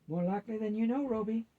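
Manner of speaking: gently amused grandmother, lifted pitch; with a smile. A narrator's reading. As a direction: let a grandmother's smile come through the words. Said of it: "said Grams with a smile".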